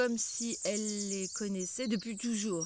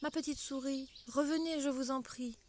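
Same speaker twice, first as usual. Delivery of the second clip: rappel doux; 4 semitones higher than usual. Acted. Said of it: "Alice la rappela doucement".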